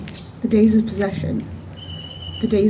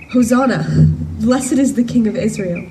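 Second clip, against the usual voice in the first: mildly raised, jubilant crowd cry; joyful acclaim; 4 dB louder than usual. Acted. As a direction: hail the king with joy. Crowds singing for joy, quoted.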